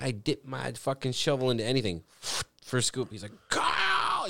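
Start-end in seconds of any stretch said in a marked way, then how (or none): 3.5-4.3 high-pitched yell over a snowblower; imitating Dad's screamed summons; screaming dad. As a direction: holler the name at the top of your lungs. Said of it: "He's screaming at the top of his lungs".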